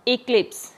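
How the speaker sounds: इक्लिप्स with the weight on क्लिप्स; stress on second syllable. Shown as a demonstration. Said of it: "क्लिप्स पे इसका जो primary stress".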